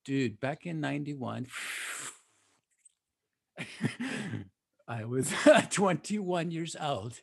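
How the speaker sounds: nervous laughter, holding back; halting, uneasy confession. Real, not acted. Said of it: "You sound nervous".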